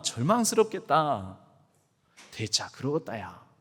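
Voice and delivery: a consoling God, soothing in dialect; God comforting in Jeolla. Acted. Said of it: "그러니까 하나님께서".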